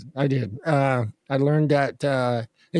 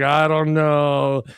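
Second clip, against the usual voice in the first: slow shrug; much slower than usual. Pretend. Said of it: "Apple's like".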